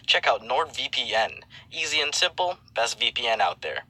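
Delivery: smooth sponsor read voice; reading a NordVPN ad to viewers. Acted. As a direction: sell it like a radio spot.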